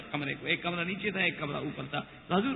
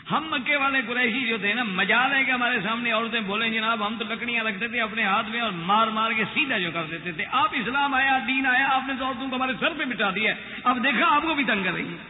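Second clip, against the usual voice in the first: lively, fast, mock-aggrieved grumbling, pitched up; teasing complaint; 4 semitones higher, 3 dB louder than usual. Umar jokingly complaining to the Prophet to make him laugh, mock-aggrieved.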